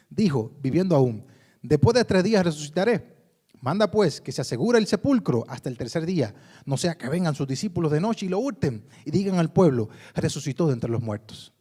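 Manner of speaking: lectura proclamada, más fuerte; lectura bíblica. Acted. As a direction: leer la Escritura a la congregación. Reads scripture aloud. (proclamando el texto ante la iglesia)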